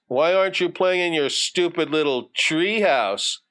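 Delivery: a touch of schoolyard mockery; taunting bully. Bully needles Johnny about his treehouse, lightly jeering.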